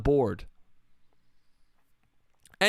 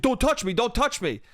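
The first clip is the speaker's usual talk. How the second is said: higher-pitched, repeated touchy protest; mock warning; 6 semitones higher than usual. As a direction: imitate a drunk itching for a fight. Drunk guy warns people off.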